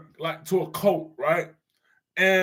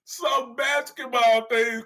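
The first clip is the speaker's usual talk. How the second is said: "Some basketball things" slow and deliberate, higher in pitch; drawn-out qualifier; 4 semitones higher, slower than usual. Shown as a demonstration. Streamer correcting Corey in chat, slow and pointed. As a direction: spell out the limit by stretching "Some basketball things". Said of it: "I say it like that".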